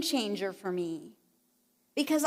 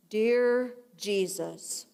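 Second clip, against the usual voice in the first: slow, mock solemn low prayer voice; deep prayer voice; 4 semitones lower, much slower than usual. Imitating the minister's prayer voice, slow and mock solemn. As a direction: drop into a hammed-up pulpit voice. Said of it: "lower my voice, like, ten octaves".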